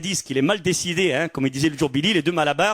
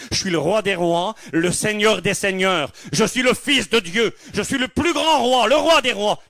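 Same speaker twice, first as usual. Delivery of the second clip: mock proud king; 5 semitones higher than usual. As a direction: lord it over the beggar. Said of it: "on peut lui dire".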